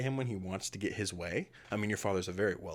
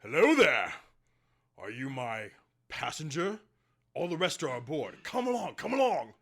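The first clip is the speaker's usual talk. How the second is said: much higher and louder, booming cheer; jovial minotaur captain; 6 semitones higher, 3 dB louder than usual. Acted. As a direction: greet the passenger with big hearty glee. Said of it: "and he says".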